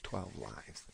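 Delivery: drawn-out pretend begging, fading away; mock pleading. Singer voicing fans begging for twelve lives, mock pleading. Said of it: "I know you're all like".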